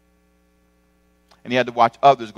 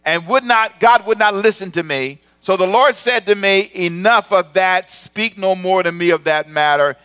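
stern God; 8 semitones higher, 6 dB louder than usual. Acted. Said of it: "Listen to how he says it".

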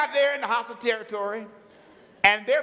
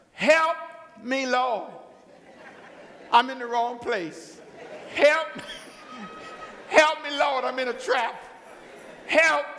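comic desperate calling out; mock cry for help; 3 semitones higher, slower than usual. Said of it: "he cried out to the Lord".

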